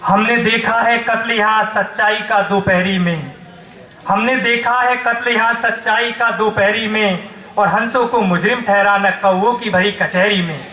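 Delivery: emphatic protest verse building to exhortation; poem recitation. Acted. Poet rouses the crowd against corrupt power, declaiming. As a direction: declaim it as a rallying call. Recites satire and call to rise.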